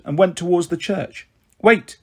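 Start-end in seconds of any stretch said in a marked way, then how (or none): 1.6-2.0 little cry. A narrator's reading. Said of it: "It was only a little cry".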